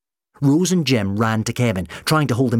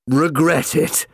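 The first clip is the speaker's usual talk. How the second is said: slow, loud, high mocking question; scornful echo; 6 semitones higher, 5 dB louder, slower than usual. A narrator's reading. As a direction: throw it back in gloating disbelief. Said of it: "gave a roar of laughter".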